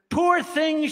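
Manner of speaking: high, loud cry of pity; cried out. Acted. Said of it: "she cried".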